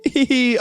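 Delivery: high little titter; chirpy gleeful giggle. A narrator's reading. Narrator delighted by biscuits, chirpy giggle. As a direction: titter with dainty glee. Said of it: "make chirpy little sounds of glee".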